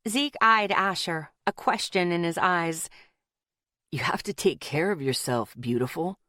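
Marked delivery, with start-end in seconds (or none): 3.9-6.2 chiding. A narrator's reading. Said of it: "Ethan chided".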